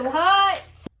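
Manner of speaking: loud, sharp call to stop; shouted cut. Acted. Director shouting at the fighting actresses. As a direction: yell cut over the quarrel.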